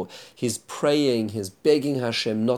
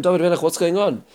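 lightly acted baffled question, higher and louder; raised, louder mock bewilderment; puzzled questioning; 7 semitones higher, 5 dB louder than usual. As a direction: voice the servants' puzzlement, pitched up and louder. Servants question the king's sudden change.

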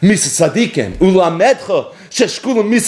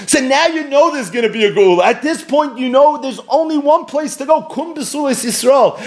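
rising climax; 7 semitones higher than usual. Real, not acted. Sermon climax, rising to redemption.

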